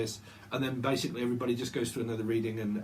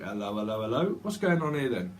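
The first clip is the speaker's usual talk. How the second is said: police officer; 3 semitones lower than usual. Retold or imitated. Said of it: "like the, um, police department".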